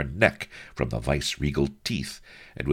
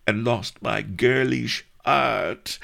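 much higher, loud wailing maiden; girlish voice; 10 semitones higher, 4 dB louder than usual. A narrator's reading. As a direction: wail like a wronged girl. Girl lamenting.

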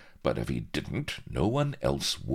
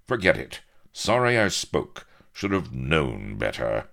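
cold; 5 dB louder than usual. Acted. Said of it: "said Avery coldly".

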